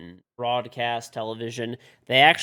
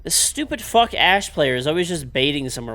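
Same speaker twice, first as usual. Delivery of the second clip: angry rant; 6 dB louder than usual. Real, not acted. Ranting at Ash player.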